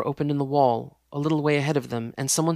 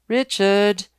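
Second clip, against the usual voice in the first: loud sharp warning; 7 semitones higher, 9 dB louder than usual. Acted. Fiancée warns Richard, loud and sharp. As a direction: cut him off with a warning. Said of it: "she warned".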